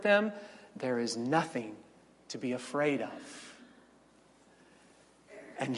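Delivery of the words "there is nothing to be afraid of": put-on soft, hushed words to a child; hushed comfort. Parent comforting a frightened child, soft and hushed. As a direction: murmur it gently into a child's ear. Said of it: "have whispered in the ears of frightened children".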